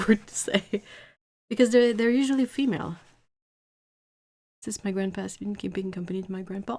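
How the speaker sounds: ordinary talk, nothing marked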